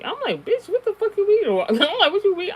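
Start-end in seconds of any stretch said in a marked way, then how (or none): 0.4-1.7 high, loud mock-outraged yell; joking outrage. Answering her sister's warning, loud joking outrage. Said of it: "I started joking". 2.1-2.5 high, loud mock-outraged yell; joking outrage. Answering her sister's warning, loud joking outrage. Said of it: "I started joking".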